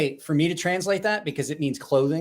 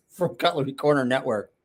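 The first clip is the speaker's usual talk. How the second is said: talking through a mouthful of food; mouth full. Real, not acted. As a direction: speak around a bite of food. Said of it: "I'm gonna have food in my mouth".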